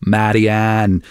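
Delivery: Marianne in a light Dublin accent. Shown as a demonstration. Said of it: "in the Dublin accent it's".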